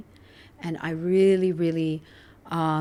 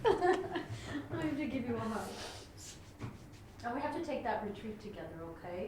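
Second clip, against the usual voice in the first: soft and tender; 14 dB quieter than usual. Real, not acted. Tender invitation after emotional moment.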